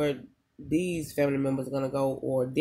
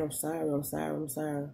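soft apology; 6 dB quieter than usual. Retold or imitated. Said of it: "I just keep hearing".

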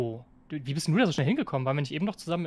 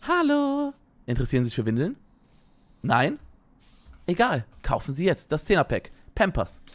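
chipper 1950s ad. Pretend. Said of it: "Hashtag Werbung".

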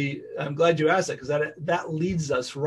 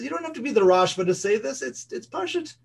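insistent, dismissive; 7 semitones higher than usual. Retold or imitated. Chazon Ish insists it's obvious.

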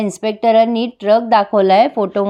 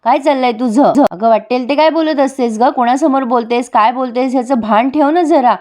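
mildly raised, scolding retold voice; a hint of a mother-in-law telling off Asmita; scolding shout; 3 semitones higher than usual. A mother-in-law scolds Asmita in front of police, mildly raised. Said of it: "कल्पनाताई खूप जोरात ओरडतात".

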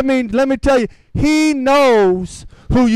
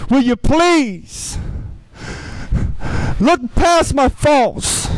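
pleading prayer; 2 semitones higher, slower than usual. Acted.

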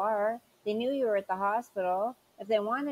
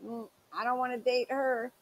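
mock dismissive people; 4 semitones higher than usual. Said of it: "people see you and say".

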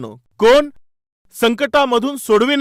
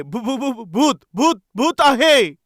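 stuttering "भू-, भू-, भू-" then blurting out "भूत आहे"; mock terrified stammer; slower than usual. Disciple spotting Jesus on the waves, mock panicked stammer. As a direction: act out a frightened disciple tripping over the word. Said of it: "कोणीतरी पाहून ओरडले".

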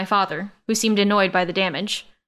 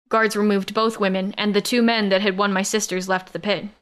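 usual speaking voice

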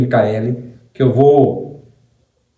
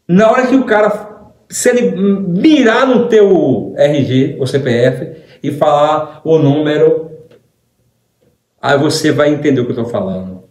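raised challenge; 3 semitones higher than usual. Real, not acted. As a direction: dare them, voice raised. Mocking pastor, challenging listeners. (desafio exaltado, voz alta)

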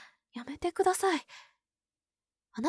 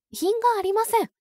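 prim, louder scolding; stern; 4 semitones higher, 5 dB louder than usual. Acted. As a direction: snap it like a strict nun. Scolding the waitress's clothes.

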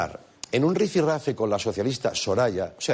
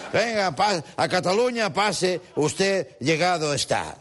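higher voice, slowing right down at the end; Yoda-like impression; 5 semitones higher, slower than usual. Comic as Yoda-like politician welcoming Pablo, higher, slowing voice. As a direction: usher them in like a mock Yoda. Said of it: "creyendo que es Yoda".

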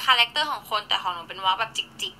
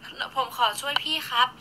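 slow touched quote; 5 dB quieter, slower than usual. Retold or imitated. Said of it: "ซึ้งว่ะ".

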